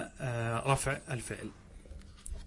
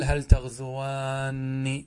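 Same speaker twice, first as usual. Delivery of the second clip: "هل تغزوان" drawn out, هل stressed; teacher modelling the kept alif slowly; very slow model phrase; much slower than usual. Shown as a demonstration. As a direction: say "هل تغزوان" syllable by syllable. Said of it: "فنقول".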